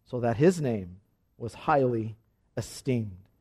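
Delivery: measured, solemn reading of the Bible passage; scripture reading. Acted. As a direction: read it aloud like a lesson from the pulpit. Formal scripture reading aloud.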